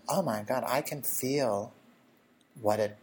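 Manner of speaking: empathetic. Retold or imitated. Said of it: "so what I do is I go".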